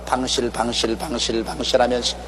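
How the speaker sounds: whisper-soft, smiling through the dark valley; soft beaming smile. Acted. (미소 지으며 훨씬 부드럽고 낮게)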